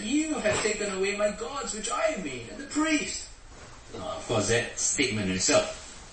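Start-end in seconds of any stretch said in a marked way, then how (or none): 0.0-3.3 high, wailing complaint of a robbed man; aggrieved Micah. Retold or imitated. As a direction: play the wronged idol maker, much higher. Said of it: "And he said".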